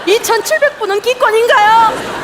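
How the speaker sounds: high, loud indignant jab. Acted. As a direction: throw the question in outrage. Indignant comic question.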